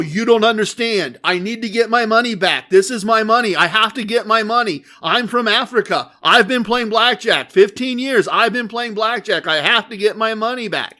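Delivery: a gambler loudly pressing his story again; desperate pleading. Retold or imitated. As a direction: beg to get the money back. Gambler repeating his plea again.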